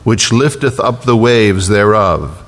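slow, measured Psalm reading; scripture reading. Acted. Preacher reading Psalm 107 to the congregation, slow and solemn.

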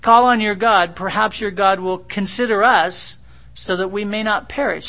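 loud, urgent demand; captain shouting. Retold or imitated. Ship captain shouting at Jonah to call on his God. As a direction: bellow it over the storm.

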